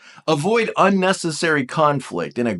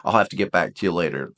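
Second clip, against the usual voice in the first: polite brush-off; 8 semitones lower, 3 dB quieter than usual. Pretend. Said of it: "more assertive and say".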